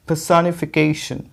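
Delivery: पर्सोनिफिकेशन slowly as puh-sa-ni-fi-KAY-shun; correct pronunciation. Shown as a demonstration. Teacher models it for students, slow पर्सोनिफिकेशन as puh-sa-ni-fi-KAY-shun. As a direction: open "sa", stressed KAY, sh ending in पर्सोनिफिकेशन. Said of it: "के पे ही stress है".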